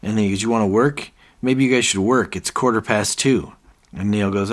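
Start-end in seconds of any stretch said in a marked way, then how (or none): 0.4-3.5 mild mock scolding. David scolds staff.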